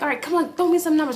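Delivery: cheering. Retold or imitated. Mom urging her daughter on, high and loud. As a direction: pump her up for big numbers.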